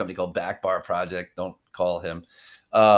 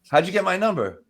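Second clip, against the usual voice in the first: mock prospect question; 8 semitones higher, 3 dB louder than usual. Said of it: "I took this also from somebody else".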